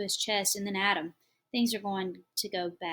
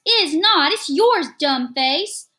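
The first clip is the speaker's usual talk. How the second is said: put-on screaming child; 8 semitones higher, 15 dB louder, slower than usual. A narrator's reading. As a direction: kid screaming far louder, much higher. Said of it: "Michael Eric screams".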